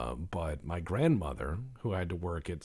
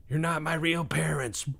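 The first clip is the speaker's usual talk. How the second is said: high, put-on outburst; hammed-up angry child, pitched way up; mock tantrum; 9 semitones higher, 5 dB louder than usual. Child slamming the door on parents, mock tantrum.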